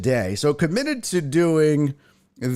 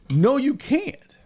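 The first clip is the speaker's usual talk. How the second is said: slow, drawn-out Trump retort, much higher; mock Trump insisting to his wife; 11 semitones higher, slower than usual. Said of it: "I do my Trump voice".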